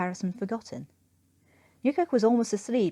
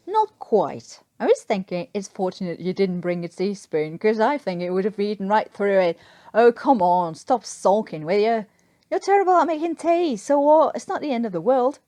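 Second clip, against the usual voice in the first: teasing Newkirk; 6 dB louder than usual. Acted.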